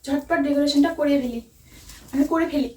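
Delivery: nervous stammer. Real, not acted. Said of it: "ভয়ে তুতলে যাচ্ছি guys".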